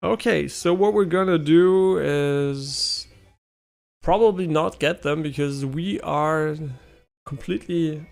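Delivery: put-on Indian accent. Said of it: "Why do I get an Indian accent".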